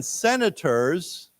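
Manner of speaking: slow, syllable by syllable, with long pauses; slow, clear teacher reading, phrase by phrase; slow read-along. Shown as a demonstration. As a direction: read it out slowly for the class to repeat. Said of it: "let's say it again".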